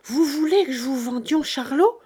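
loud, high, indignant cry; furious outburst. A narrator's reading. Farm wife refusing to sell her boy, furious. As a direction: flare up at the very idea. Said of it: "toute furieuse".

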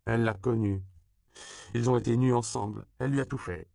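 put-on high, loud scandalised girl; shocked girl. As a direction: blurt the secret out.

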